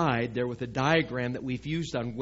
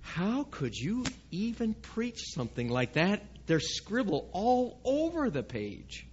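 imitating Brother Frank; 6 semitones higher than usual. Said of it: "you'd look at it and you'd say".

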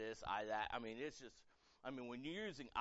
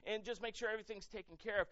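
entertain me shot out very loud, then high and whiny; mock a spoiled, demanding crowd; demanding churchgoers; 6 semitones higher, 10 dB louder than usual. Churches demanding to be pleased, loud mocking whine. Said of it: "so many churches are like".

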